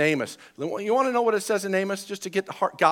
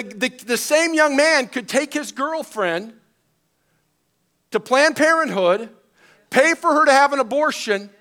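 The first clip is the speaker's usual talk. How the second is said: raised pitch, indignant sermon delivery; forceful preaching; 7 semitones higher, 4 dB louder than usual. Real, not acted. Pastor preaching on the nation's double standard, forceful. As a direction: drive the point home to the congregation.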